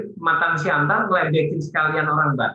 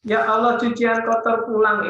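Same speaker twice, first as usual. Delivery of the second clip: high-pitched mock lament; dismayed wife; 6 semitones higher than usual. Trainer repeating the wife's line as a joke, high dismayed voice. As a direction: replay the wife's woeful greeting. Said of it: "istri buka korden".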